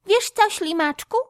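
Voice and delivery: a bright smiling question; smiling squirrel. A narrator's reading. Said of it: "nagle uśmiechnęła się".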